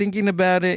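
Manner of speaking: mock heavy, slurred Mexican accent. Retelling what a drunk uncle told him: imitating drunk uncle's heavy Mexican accent. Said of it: "very, very heavy accent".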